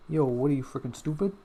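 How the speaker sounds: lightly attempted Boston accent. Shown as a demonstration. Streamer testing a Boston stereotype, tentative Boston accent. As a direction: try a cocky Boston accent, like the Scout. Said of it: "what's a Boston accent like?".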